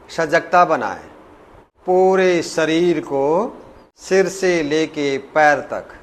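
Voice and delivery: measured meditation instruction with long pauses; guided meditation. Real, not acted. Yoga teacher leading students into breath awareness, unhurried guided meditation. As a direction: guide them gently inward, phrase by phrase.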